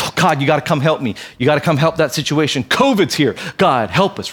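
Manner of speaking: panicky reactive prayer. Retold or imitated. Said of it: "We pray this almost defensive".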